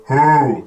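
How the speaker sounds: a flat hoot no owl would make; wrong low hoot. Shown as a demonstration. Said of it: "no owl would go".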